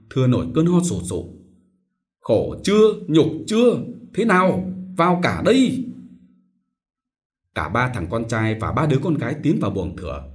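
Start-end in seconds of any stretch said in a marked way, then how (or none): 2.2-5.8 high, loud despairing cry; anguished yell. A narrator's reading. Sick father cries out at his quarrelling sons, loud and anguished.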